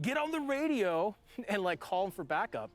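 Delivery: high, urgent order to call backup. Retold or imitated. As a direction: bark it high and urgent under fire. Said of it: "They're like".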